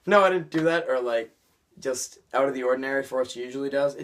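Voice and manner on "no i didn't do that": mild surprised denial. Retold or imitated. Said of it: "that delivery was meant to be like".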